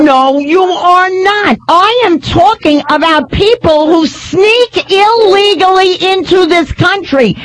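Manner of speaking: slow, emphatic shouting over someone; real exasperated argument, building to a shout; angry rebuttal. Real, not acted. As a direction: hammer each word home, drawn out. Host argues over the caller.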